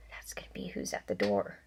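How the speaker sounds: soft spooky whisper. Real, not acted. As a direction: whisper it like a secret. Teacher whispering to class.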